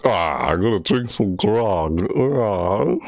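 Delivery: slow, drawn-out put-on voice; Dev Gamer. Streamer mimicking a friend drinking grog, slow put-on voice. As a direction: imitate a crewmate eager for grog. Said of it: "Dev Gamer's like".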